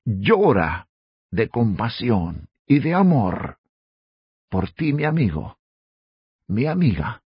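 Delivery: low, soft, unhurried consolation; tender compassion. Real, not acted. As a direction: say it gently, pausing between phrases. Preacher consoles listener with Jesus' love. (con ternura compasiva, en voz baja y pausada)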